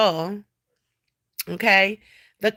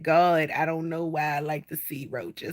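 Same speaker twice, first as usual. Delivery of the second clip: mock tearful prayer; 5 semitones lower, 8 dB quieter than usual. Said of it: "I be mad and crying like".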